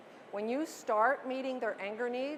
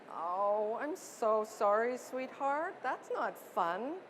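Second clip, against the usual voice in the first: empathetic parent; slower than usual. Shown as a demonstration. Parent consoling toddler over his lost truck, gentle soothing voice. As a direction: comfort the sad little one. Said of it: "I'm going to model for you".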